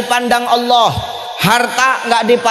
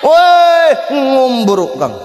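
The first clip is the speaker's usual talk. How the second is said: loud, high "Woi"; calling out; 5 semitones higher, 4 dB louder, much slower than usual. Acted. Preacher voicing a shout at a proud rich man, loud hail. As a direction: hail him sharply across the road.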